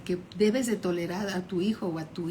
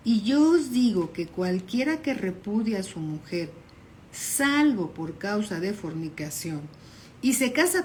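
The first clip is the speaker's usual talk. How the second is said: slower, deliberate reading of the verse; read more slowly. Shown as a demonstration. Preacher rereads the verse to the congregation, slowly. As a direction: let each word land, slightly slower. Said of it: "Vamos a leerlo más despacio".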